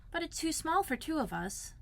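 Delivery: put-on high, soft, downcast boy; sadly. Christopher Robin to Pooh about the tiny boat, high, soft and sad. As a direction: let the disappointment sink in quietly. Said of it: "said Christopher Robin sadly".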